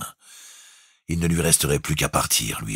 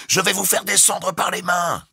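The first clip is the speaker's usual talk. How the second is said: bosun's cry. A narrator's reading. The bosun shouts his plan to Jukes. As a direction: bellow it through the gale. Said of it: "cria-t-il".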